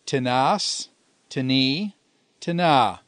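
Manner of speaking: "tinas, tini, tina" each stressed on the final syllable; accent the ends of "tinas", "tini" and "tina"; stress on last syllable. Shown as a demonstration. Teacher reciting a Greek declension to students, stress on the last syllable of "tinas", "tini", "tina". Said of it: "the accent occurs on the ultima".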